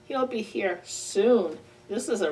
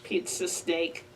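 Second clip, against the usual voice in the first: lower, softer, slow and sly; hushed snake greeting; 6 semitones lower, 5 dB quieter than usual. Acted. Reading aloud to kids, soft slow snake greeting. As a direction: creep it out like a snake.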